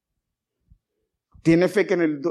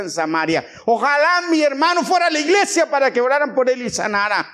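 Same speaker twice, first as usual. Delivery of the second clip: raised, emphatic sermon voice; preaching; 6 semitones higher, 3 dB louder than usual. Real, not acted. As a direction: preach it out to the congregation. Preaches to congregation.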